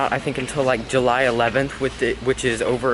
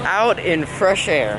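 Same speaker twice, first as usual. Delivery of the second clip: relieved sigh; 5 semitones higher, 4 dB louder, slower than usual. Real, not acted. Relieved exhale leaving crowded store.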